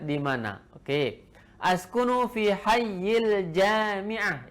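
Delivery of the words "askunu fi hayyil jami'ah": slow, deliberate model reading; every syllable drawn out clearly; careful slow reading. Shown as a demonstration. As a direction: read it out slowly for the class to copy. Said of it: "Ingat cara bacanya".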